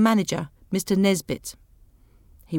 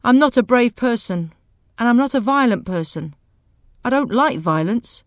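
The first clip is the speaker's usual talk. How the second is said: angry speech; 3 semitones higher, 4 dB louder than usual. Acted.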